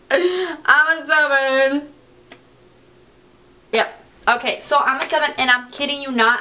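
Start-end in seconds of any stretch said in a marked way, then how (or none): 0.0-1.9 slow, giggling delight; laughing. Real, not acted. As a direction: savor it through a laugh. Delighted by her shade.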